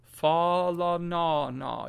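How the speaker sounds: Fa la na na slowly, each vowel a wide "ah"; wide open vowels. Shown as a demonstration. Teacher models for pupils to echo, slow wide-mouthed Fa la na na. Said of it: "we really need the wide mouth frog".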